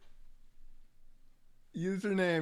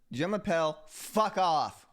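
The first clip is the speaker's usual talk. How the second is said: cheeky mock intro. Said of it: "How was that?".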